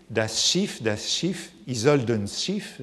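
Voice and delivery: put-on lecturer's modest German accent on the opera words. Quoting Tristan's cry from Wagner, in a German accent. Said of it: "mon accent allemand n'est, ce ne sera pas très bon".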